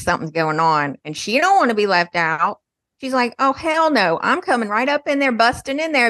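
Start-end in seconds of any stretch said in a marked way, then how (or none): 3.4-6.1 higher-pitched, sassy mock indignation; indignant sibling. Left-out sibling barging in, mock indignant. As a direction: play the sister who won't be left out.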